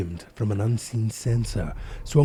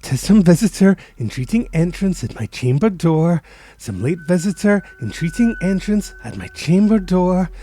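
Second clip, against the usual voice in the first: raised, higher anxious plea; anxious repeating; 7 semitones higher, 4 dB louder than usual. Acted. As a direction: repeat it aloud to calm a racing heart. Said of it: "I stood repeating".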